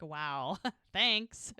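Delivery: laughing between the words; chuckling, wry retelling; amused mock thanks. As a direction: imitate an awkward reaction through laughter. Imitates awkward reaction while laughing.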